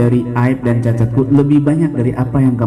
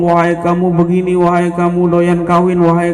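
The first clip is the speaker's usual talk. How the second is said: mock insults; 5 semitones higher than usual. Voicing a man insulting Imam Ali.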